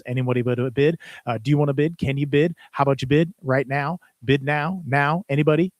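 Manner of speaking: auctioneer filler phrases. Shown as a demonstration. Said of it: "These are all filler phrases".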